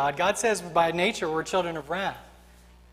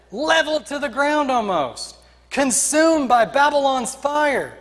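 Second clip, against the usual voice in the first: raised, higher-pitched exhortation; urgent rallying cry; 3 semitones higher than usual. Acted. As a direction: rouse a people to rebuild. Nehemiah rallies the people.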